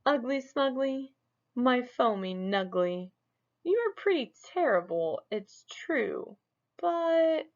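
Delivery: high, hedging magic mirror; hesitant mirror voice. Acted. The mirror hesitates before giving Smug bad news. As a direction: let the mirror stall nervously.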